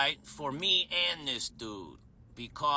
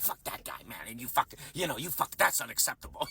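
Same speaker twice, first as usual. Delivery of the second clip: mock tough talk; 5 semitones lower, faster than usual. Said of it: "acting like I'm tough".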